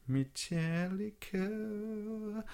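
put-on drawn-out, high German-accented band name. Host reading a setlist, in mock German accent. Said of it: "Was that a good German accent?".

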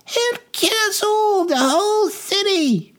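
very high woman's shriek from the crowd; panicked shriek. Acted. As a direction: shriek it in terror, stretching the last words. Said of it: "shrieked another".

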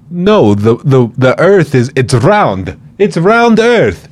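high, slow mocking know-it-all voice. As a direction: sneer it out in a high silly voice. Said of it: "And he was like".

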